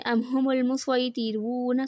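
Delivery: slow recitation of ام ہم المسویطرون; drawn out, every letter of المسویطرون clear; slow Quran recitation. Shown as a demonstration. Teacher recites the word where ص or س is allowed. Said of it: "صاد بھی پڑھ سکتے ہیں اور سین بھی".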